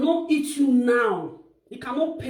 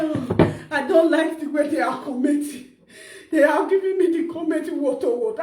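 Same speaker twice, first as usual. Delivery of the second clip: whiny mock-tearful complaint, slightly raised; mock crying. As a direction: imitate her tearful complaining. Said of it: "she's crying. She said".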